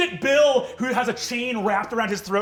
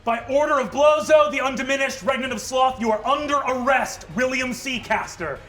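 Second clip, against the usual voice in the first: higher, louder proclamation; devil herald; 5 semitones higher, 4 dB louder than usual. Acted. Devil herald reading an arrest, loud and formal. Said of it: "Vraz says".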